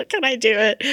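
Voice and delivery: high, loud pretend panic; hammed-up worry, pitched right up; mock self-doubt. Psychic doubting herself on stage, mock nervous.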